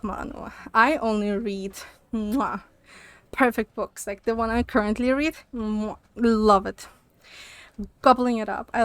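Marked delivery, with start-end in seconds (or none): 2.1-2.6 chef's kiss smack. Real, not acted. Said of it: "chef's kiss sound". 5.5-6.9 chef's kiss smack. Real, not acted. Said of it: "chef's kiss sound".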